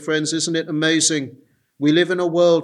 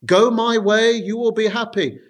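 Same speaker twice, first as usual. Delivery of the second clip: tempting Satan; 3 semitones higher than usual. Retold or imitated. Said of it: "This is Satan's, uh, temptation".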